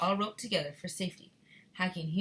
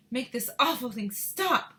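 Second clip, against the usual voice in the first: higher, loud demanding woman; Missus Teavee; 6 semitones higher, 6 dB louder than usual. Acted. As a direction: order it stopped in a woman's voice. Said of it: "My Missus Teavee voice".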